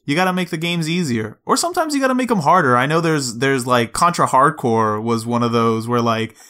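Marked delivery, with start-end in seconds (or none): 0.1-2.8 fast, climbing much higher into a squeaky mock voice; mock developer. Mocking Japanese developers' advice to Americans, fast and rising high. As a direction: rattle off the rules like a clueless executive. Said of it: "developers were just like".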